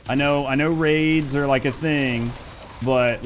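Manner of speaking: ordinary talk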